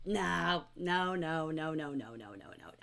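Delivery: sinking from normal to a low whisper; fading refusal. Acted. Teacher answering the apology, a refusal fading to whisper.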